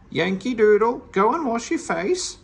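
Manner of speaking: high, loud squawky parrot order; bossy parrot squawk; rude parrot. A narrator's reading. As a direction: parrot rudely ordering Meddle about. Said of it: "said the parrot".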